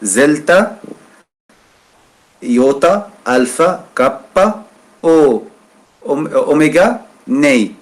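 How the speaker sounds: "zelta, iota, alpha, kappa" said high and rising, one by one; spelling out letters. Shown as a demonstration. Teacher spelling a Coptic word for students, letter by letter. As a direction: call out each Coptic letter slowly and distinctly. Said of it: "pour prononcer les lettres".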